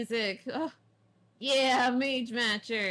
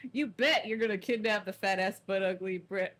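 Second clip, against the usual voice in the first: rowdy boss voice; 4 dB louder than usual. Acted. Voiced gang boss insult.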